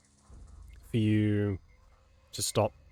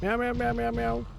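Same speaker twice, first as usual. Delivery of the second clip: high cat meows; 12 semitones higher than usual. Pretend. Meowing at the cat repeatedly.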